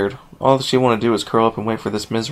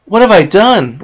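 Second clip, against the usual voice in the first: high, loud yell, stress on "have"; desperate yell leaning on "have"; despairing yell; 9 semitones higher, 8 dB louder, slower than usual. Acted. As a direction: cry out with the weight on "have". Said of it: "Rainbow Dash yelled in despair and anger".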